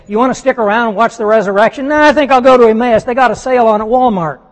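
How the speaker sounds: quick, casual put-on exchange; mock dialogue. Mocking disciples heading to Emmaus, quick and casual. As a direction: toss it off like a shrug.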